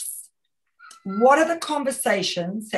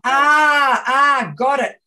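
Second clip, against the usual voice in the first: loud, bright cry of understanding; sudden realization; 4 semitones higher, 8 dB louder, much slower than usual. Real, not acted. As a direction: burst out as it finally clicks. Realizing what was asked.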